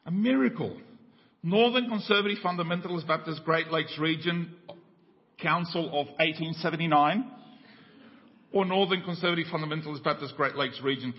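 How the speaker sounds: mild excitement. Retold or imitated. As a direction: keep the eager questioning going. Stranger questions man on bridge.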